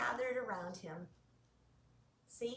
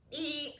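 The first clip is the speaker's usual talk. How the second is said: truck eep; 2 semitones higher than usual. Acted. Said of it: "said Blue".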